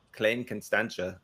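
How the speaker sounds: a shaky try at South African pronunciation; South African accent. Shown as a demonstration. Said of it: "I have a horrible South African accent".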